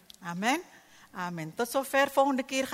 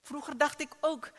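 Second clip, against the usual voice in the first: usual speaking voice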